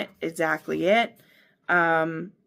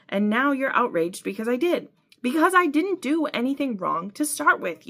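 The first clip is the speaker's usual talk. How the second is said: higher-pitched, heated back-and-forth; outraged quarrel; 4 semitones higher than usual. Acted. Couple fighting over faithfulness, outraged. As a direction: argue it hotly, voice climbing.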